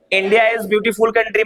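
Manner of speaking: India is beautiful country, slow and even; slow example again. Shown as a demonstration. Teacher repeating the example for the class. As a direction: repeat the example sentence slowly. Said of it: "क्या बोला मैंने?".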